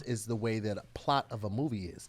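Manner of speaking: a hint of a History Channel narrator; speaking with purpose. Host explains his put-on voice in a mock documentary tone. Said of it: "So that's how this voice".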